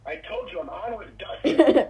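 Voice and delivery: high, loud mock scolding; fake-angry dad at the door; pretend mad. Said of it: "I'm just kidding".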